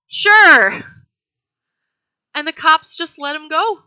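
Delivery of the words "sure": mock casual sure. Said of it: "And he says".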